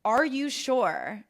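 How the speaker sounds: slow, doubtful Are you sure; slow disbelieving question. Retold or imitated. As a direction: imitate the stunned nail tech. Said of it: "she was, like, shook".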